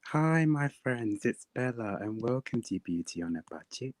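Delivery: YouTube beauty vlogger. Retold or imitated. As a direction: greet viewers like a beauty YouTuber. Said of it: "shall I do some YouTube impressions".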